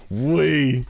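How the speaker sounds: mock-Australian query; Mia. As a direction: question it in a bad Aussie accent. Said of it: "the shitty Australian accent".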